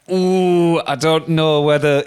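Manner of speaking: put-on hesitant doorkeeper with a German accent; mock German accent. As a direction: imitate a doubtful German gatekeeper. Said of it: "Obviously, all in a German accent".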